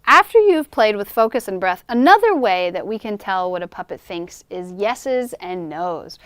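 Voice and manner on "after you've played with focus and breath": ordinary talk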